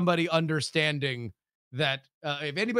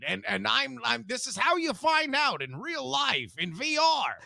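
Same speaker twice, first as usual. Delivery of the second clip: severed head voice; 7 semitones higher, slower than usual. Acted. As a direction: boom it out like a ghostly head. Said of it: "the disembodied head says".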